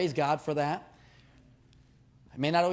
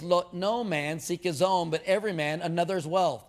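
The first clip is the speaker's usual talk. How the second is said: slow, deliberate reading with weight on no; measured scripture reading. Shown as a demonstration. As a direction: read the verse slowly, leaning on no. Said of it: "In verse twenty-four, it says".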